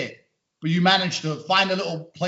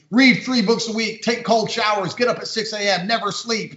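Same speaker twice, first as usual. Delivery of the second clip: higher-pitched parody of online advice; mimicking a preachy tweet, punchy at first; mock self-improvement preaching; 5 semitones higher than usual. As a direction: reel off commands like a zealous guru.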